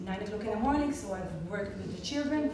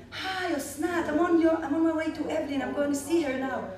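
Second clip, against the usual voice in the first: cheerful; 6 semitones higher than usual. Retold or imitated. Cheerful phone greeting.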